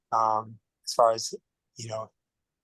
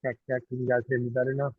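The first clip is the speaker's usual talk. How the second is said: muffled mic; 3 dB quieter, much faster than usual. Real, not acted. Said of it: "A little bit".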